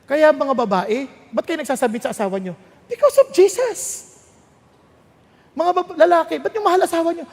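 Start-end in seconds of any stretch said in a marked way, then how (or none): 2.8-3.8 loud, high-pitched cry of conviction; ringing preacher's refrain; emphatic rallying answer. Acted. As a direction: proclaim the answer with force. Emphatic answer to his own question.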